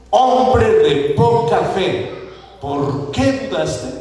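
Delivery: slow, stern scolding of Pedro; slow rebuke. Acted. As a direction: scold him, measured and firm. Jesús regaña a Pedro. (Jesús regaña a Pedro, lento y severo)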